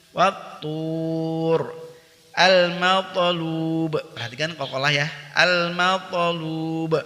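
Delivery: Quranic recitation drill. Shown as a demonstration. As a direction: model the words for students to repeat. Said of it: "Kita berlatih".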